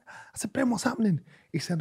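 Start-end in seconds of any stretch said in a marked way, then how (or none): 0.1-0.5 whisper. Retold or imitated. Whispering to a friend in gym. 0.5-1.2 hushed whisper to a mate; whispering through a crowded gym. Retold or imitated.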